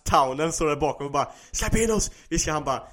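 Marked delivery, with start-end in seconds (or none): 1.5-2.1 high-pitched mock call; lightly acted demanding cry; imitated crowd plea. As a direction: call out like villagers at a gate. Townspeople's plea acted in retelling.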